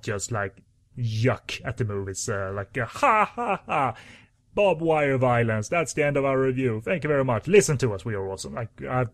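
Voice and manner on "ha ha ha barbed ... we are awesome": mock dumb reviewer. Mocking a shallow movie review.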